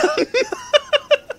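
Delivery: high squealing laugh; helpless high giggle; burst of high laughter. Real, not acted. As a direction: cracks up at her own flub. Laughing at her own slip.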